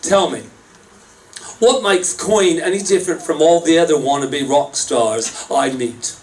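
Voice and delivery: put-on British accent. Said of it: "That was a British accent".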